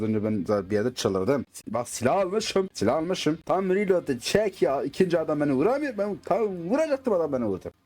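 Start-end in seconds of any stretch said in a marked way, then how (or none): 1.7-7.7 higher-pitched worked-up grumbling; retold gamer exasperation; exasperated retelling. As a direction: relive the irritation, voice pushed up. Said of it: "Ben orada çok sinirlendim zaten".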